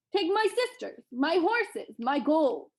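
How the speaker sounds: high, eager listing; effusive offering. Acted. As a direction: offer everything you own, gratefully. Grateful giant offering everything.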